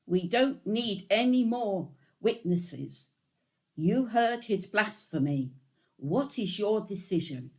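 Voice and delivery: the high priest rallies the council; outraged priest. A narrator's reading. High priest tears robes, outraged.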